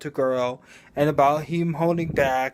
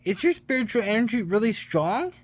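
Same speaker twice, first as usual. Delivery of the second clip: amazed; 7 semitones higher, faster than usual. Retold or imitated. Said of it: "fucking amazed".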